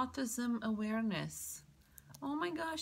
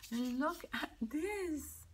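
whisper; 6 semitones higher, slower than usual. Real, not acted. Showing card, hushed.

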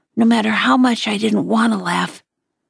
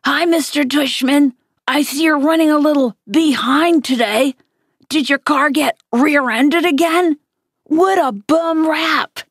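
higher, lightly put-on old lady voice; fake old lady voice; 6 semitones higher than usual. Dad teasing Augie about the principal in a mild mock old lady voice. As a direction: keep the silly granny voice going, teasing. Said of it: "He was using a fake high old lady voice".

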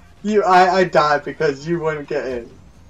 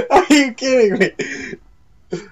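high, loud, laughing outrage; incredulous yelling; 11 semitones higher, 7 dB louder than usual. Real, not acted. Player to friend after dying, incredulous yelling. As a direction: shout it in disbelief at a friend.

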